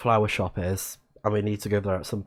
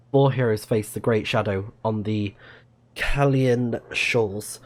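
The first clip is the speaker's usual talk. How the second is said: story narration. Acted. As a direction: tell the legend like an epic prologue. Reads the game's lore intro.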